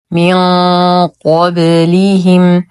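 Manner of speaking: "من قبلهم" recited slowly, echo on the ب; bounced baa. Shown as a demonstration. Teacher models qalqala for learners, bouncing baa in "قبلهم". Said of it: "نقلقل الباء لأنها ساكنة".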